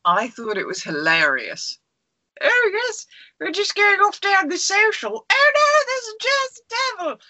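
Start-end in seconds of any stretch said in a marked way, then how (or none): 2.4-7.2 high-pitched, hammed-up British panic; very British chit-chat rising into mock alarm; very British accent. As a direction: Downton Abbey British, squeaky and theatrical. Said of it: "that is a very British accent".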